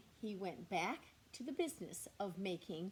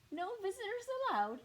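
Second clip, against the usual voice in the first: grumpy bear; 13 semitones higher, 4 dB louder, much faster than usual. Acted. Bear turns the mouse away.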